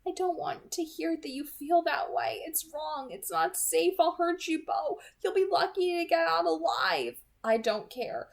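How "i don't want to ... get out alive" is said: put-on higher, louder voice of an anguished vampire girl; anguished Edith. A narrator's reading. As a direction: plead in pain, raised and tense.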